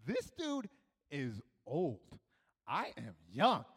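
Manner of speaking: low, hushed, slow realization; scheming inner thought. Retold or imitated. Child realizing he can outrun the man, sly and hushed. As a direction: let the idea dawn slowly and softly.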